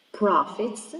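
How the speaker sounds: "Profits" with PRO stressed; teacher's demo of "Profits", PRO-fits; stress on first syllable. Shown as a demonstration. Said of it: "first syllable".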